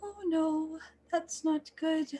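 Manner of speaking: high, worried muttering. Acted.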